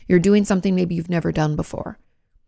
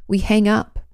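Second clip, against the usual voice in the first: ordinary delivery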